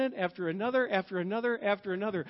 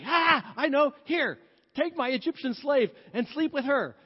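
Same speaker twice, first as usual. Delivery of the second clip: Sarah's bright idea; 4 semitones higher, 4 dB louder than usual. Retold or imitated. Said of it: "And so Sarah gets in".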